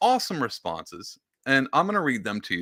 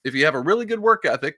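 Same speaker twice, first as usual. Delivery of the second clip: sarcastic reading; 6 semitones higher, 4 dB louder, faster than usual. Shown as a demonstration. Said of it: "put emphasis".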